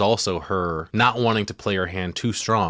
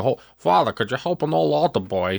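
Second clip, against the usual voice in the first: put-on old man's voice; 6 semitones higher than usual. The possessed girl imitating the old man to the priest, high and pleading. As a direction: play a lightly mocked old man begging the priest. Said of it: "sounds exactly like the old man".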